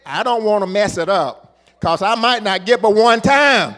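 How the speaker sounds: high, loud climactic shout; preaching shout. Acted. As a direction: cry it out at the peak of the sermon.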